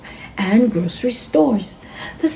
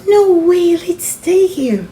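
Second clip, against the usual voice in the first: put-on high, bright childish refusal; Maddie refusing; 9 semitones higher, 3 dB louder than usual. Maddie refusing to leave the wall, high and insistent. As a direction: insist like a kid who won't leave. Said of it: "Maddie said".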